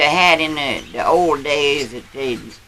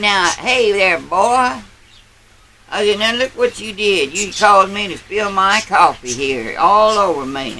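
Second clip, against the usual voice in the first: put-on higher, louder scolding of a young bully; stern scolding; 4 semitones higher, 4 dB louder than usual. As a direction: dress down the boy, raised and higher. Old man scolding the bully.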